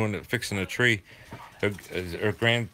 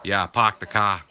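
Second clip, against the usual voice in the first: "park the car" as "pahk the cah", r dropped, Boston accent; 2 semitones lower than usual. Shown as a demonstration. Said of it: "That's how we say it".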